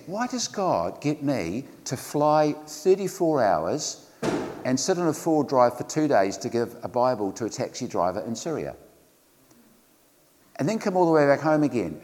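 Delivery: a hint of the speaker's lovely accent. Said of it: "in his lovely accent".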